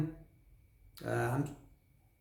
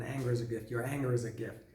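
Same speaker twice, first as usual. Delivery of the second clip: much softer, lower rapped line; hushed lyric; 3 semitones lower, 7 dB quieter, faster than usual. Pretend. Fan describing the song's quiet part, hushed. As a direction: hold it back before the explosion.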